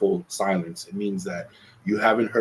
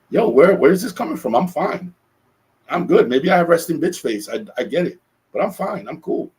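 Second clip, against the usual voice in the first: higher and louder, brushing off the worry; defensive reassurance; 8 semitones higher, 5 dB louder than usual. Retold or imitated. Man to worried partner, higher, louder, defensive "I'm fine". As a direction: insist you're fine, a bit exasperated. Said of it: "And I'm like".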